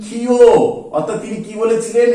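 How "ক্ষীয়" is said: ক্ষীয় said as khi-yo; letter name khiyo. Shown as a demonstration. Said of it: "উচ্চারিত নাম দিয়েছিলেন".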